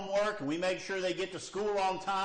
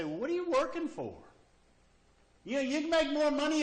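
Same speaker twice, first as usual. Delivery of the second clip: mock questioner; 11 semitones higher, 4 dB louder, faster than usual. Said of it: "people would say".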